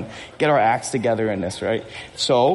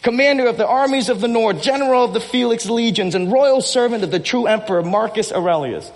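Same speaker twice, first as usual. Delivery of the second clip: higher-pitched, hint of a proud commander; powerful commander; 6 semitones higher than usual. Pastor quotes a film hero to the congregation, powerful commander. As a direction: lightly act out a commander declaring his titles. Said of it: "this energy, this power coming from him".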